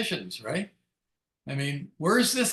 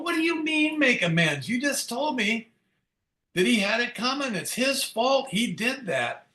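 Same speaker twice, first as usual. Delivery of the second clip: mock outrage, much higher pitch; indignant protest; 8 semitones higher than usual. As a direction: pitch it way up in disbelief. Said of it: "I go".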